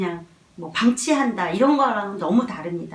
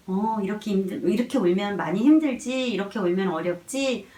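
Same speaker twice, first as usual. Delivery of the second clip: empathetic validation. Shown as a demonstration. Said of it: "이런 마음을 가지고 있으면".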